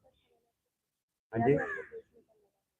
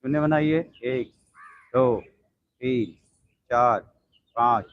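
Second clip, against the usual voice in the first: steady counting of reps; yoga count; 2 semitones lower, slower than usual. Acted. Yoga teacher counting leg circles for the class, even and steady. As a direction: count the class through each set evenly.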